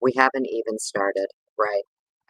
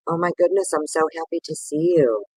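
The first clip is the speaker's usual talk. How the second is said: excited; 6 semitones higher than usual. Real, not acted. Thrilled greeting to viewer.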